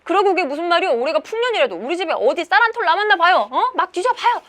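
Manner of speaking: high, loud angry protest; flaring indignation. Acted. Maldong protests that everything was taken, flaring up. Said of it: "말동이가 또 불끈합니다".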